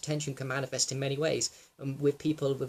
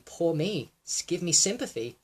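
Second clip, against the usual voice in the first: mild mock plea for sympathy, slightly higher; lightly imitated self-pity; 4 semitones higher than usual. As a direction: act out a touch of "poor me". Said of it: "my physical mannerisms were that of".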